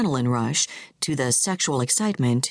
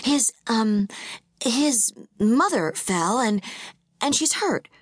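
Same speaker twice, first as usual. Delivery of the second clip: high, halting, tearful plea; near tears; 5 semitones higher than usual. A narrator's reading. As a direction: hold back tears as you beg. Tiffany fakes emergency near tears.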